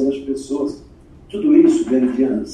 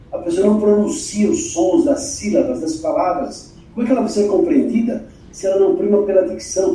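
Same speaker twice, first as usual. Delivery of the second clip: usual speaking voice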